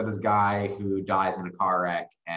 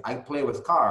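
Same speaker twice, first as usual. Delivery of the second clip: slightly raised mock Eastern European accent; 4 semitones higher, 4 dB louder than usual. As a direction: imitate broken English with an Eastern European accent. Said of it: "a group of seemingly Eastern European men".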